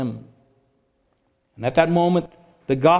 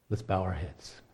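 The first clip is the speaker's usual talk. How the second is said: closing prayer; 3 semitones lower than usual. Real, not acted.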